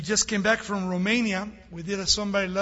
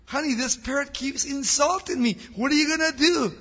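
higher, louder mock-tearful complaint; mock crying; 7 semitones higher, 4 dB louder than usual. Wife complaining to her husband about the insulting parrot, mock crying. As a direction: play a distraught wife, pitched up. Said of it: "she's crying".

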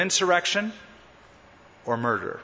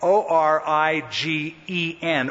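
spelling out; slower than usual. Shown as a demonstration. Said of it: "It's not like where something originates".

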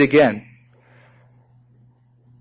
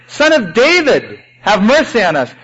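crying out again; 5 semitones higher than usual. Retold or imitated. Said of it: "they cried out later".

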